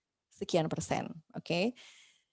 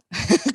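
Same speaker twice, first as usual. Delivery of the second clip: short burst of laughter, higher and louder; amused laugh; 6 semitones higher, 6 dB louder than usual. Real, not acted. Host laughing at a technical slip, amused laugh. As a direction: laugh at your own slip. Laughs at accidental button press.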